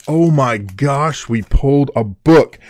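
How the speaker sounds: real thrill at a rare pull; excited gasp. Real, not acted. Opening a pack on stream, thrilled at a rare book card. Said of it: "so excited".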